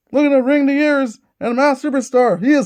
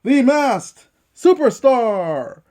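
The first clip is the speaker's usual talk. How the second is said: ring announcer. Pretend. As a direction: boom out the entrance like a ring announcer. Ring announcer introducing wrestler.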